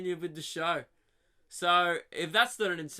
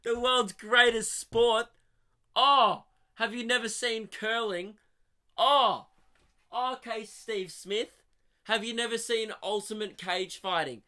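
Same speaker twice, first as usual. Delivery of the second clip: higher, louder and slow, like you can't believe it; incredulous outrage; 6 semitones higher, 6 dB louder than usual. Real, not acted. Comic scoffing at the cricketer's tearful apology, incredulous and loud. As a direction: scoff at the claim, drawing it out. Mocking Steve Smith's claim.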